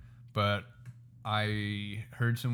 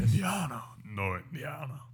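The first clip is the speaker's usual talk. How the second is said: mock Indian accent; 5 dB quieter than usual. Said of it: "we don't really do it justice".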